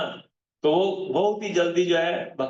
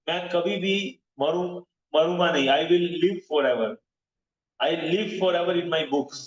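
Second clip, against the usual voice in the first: slow solemn quote; slower than usual. Retold or imitated. Quoting Prabhupada's promise solemnly.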